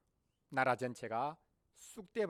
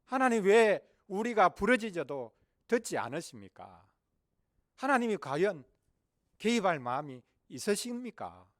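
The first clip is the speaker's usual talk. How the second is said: raised, higher-pitched anguished plea; crying out in protest; 4 semitones higher, 7 dB louder than usual. Acted. Israelites under Babylon crying to God, loud pleading protest. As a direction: call out urgently, demanding an answer. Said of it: "부르짖고 있는 것입니다".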